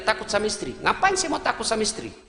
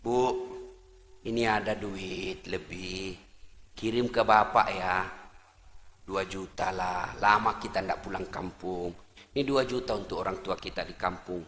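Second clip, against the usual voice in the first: a meek husband hoping his wife agrees; timid husband; 14 semitones lower, 10 dB quieter than usual. Acted. Husband timidly offering money home.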